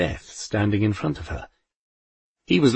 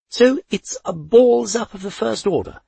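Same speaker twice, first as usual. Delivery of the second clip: Poldy's voice; 12 semitones higher, 4 dB louder than usual. A narrator's reading. Poldy sums up.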